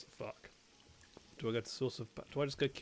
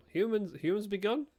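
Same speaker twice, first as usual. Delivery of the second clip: mock fey voice; 7 semitones higher, 3 dB louder than usual. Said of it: "just how they talk".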